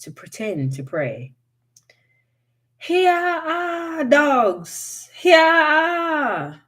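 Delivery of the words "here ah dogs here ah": high, loud call to the hounds; hollering for dogs. A narrator's reading. Wiley calling his hounds to chase off the hairy man. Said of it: "Wiley hollered".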